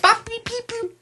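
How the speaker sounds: high droid babble with mama; beep boop robot. Pretend. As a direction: chirp like a baby droid. Continuing droid baby babble.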